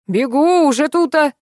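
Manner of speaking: high-pitched eager call back; eager reply. A narrator's reading. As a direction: call back in a hurry to come. Eager man calls back. (радостно откликнуться издалека)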